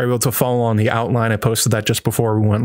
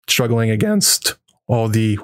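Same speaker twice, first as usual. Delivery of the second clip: voice cracking. Real, not acted. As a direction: voice cracks mid-phrase. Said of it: "wow, my voice just cracked".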